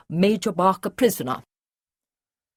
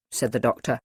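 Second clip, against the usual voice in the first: ordinary delivery, nothing marked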